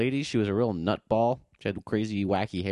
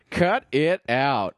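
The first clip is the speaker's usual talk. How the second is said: slow, loud "Cut it out" with a hand-chop feel; Uncle Joey catchphrase; 3 semitones higher, 5 dB louder, slower than usual. Retold or imitated. Quoting Uncle Joey from Full House, slow loud catchphrase.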